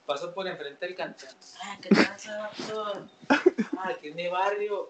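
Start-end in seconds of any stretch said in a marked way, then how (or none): 1.6-4.9 a lightly voiced cholo, louder on the greeting; cholo swagger. Teen showing off to friends, mock cholo swagger. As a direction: strut and talk like a cholo from the barrio. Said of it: "caminando como cholo".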